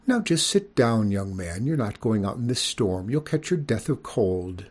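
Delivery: lightly scolding mother; motherly lecture. Acted. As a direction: fuss over him like a mother. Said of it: "She sounded like Cotton's ma lecturing me".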